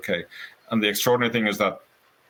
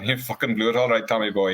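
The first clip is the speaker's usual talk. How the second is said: light Cork lilt; retold line in a Cork accent; 3 semitones higher than usual. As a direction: imitate a Cork man ribbing a friend. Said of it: "he said, in his Cork accent".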